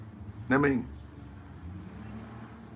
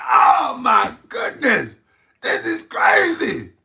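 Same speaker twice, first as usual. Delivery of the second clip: mock shock; 3 semitones higher, slower than usual. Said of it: "I said".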